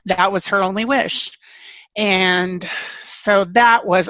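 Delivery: slow, welling up with emotion; real emotion held back, slowing down; choked up. Real, not acted. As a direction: speak as the memory gets to you. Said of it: "I'm getting a little emotional".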